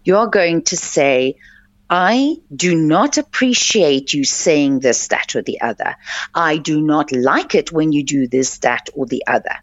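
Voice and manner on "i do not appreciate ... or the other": calm and level, trailing lower at the ends. Shown as a demonstration. Calling out a bully in front of colleagues, calm tone. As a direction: state it plainly, no heat at all. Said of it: "in a very calm tone".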